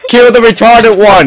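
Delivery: laughing. Real, not acted. Laughing game chant.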